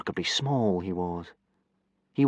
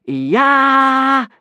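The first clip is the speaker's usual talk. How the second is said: high, loud group shout; yelled war cry; 11 dB louder than usual. Acted. Boys yelling the war cry back. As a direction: yell it back like maniacs. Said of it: "yelled ten of the boys".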